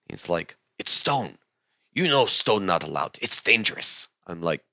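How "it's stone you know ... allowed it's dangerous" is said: broken English guard. Retold or imitated. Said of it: "in very broken English".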